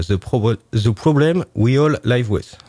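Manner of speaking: slow English title in a heavy French accent. Real, not acted. Book host reads English painting title, slow, strong French accent. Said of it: "avec mon accent anglais, euh, parfait".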